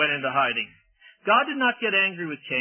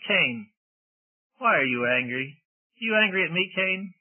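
pleading; 2 semitones higher than usual. Pretend. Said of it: "very loving and very appealing".

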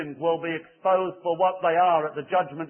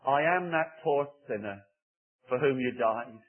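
soft model prayer; 2 semitones lower than usual. Shown as a demonstration. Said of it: "say from your heart to Jesus Christ".

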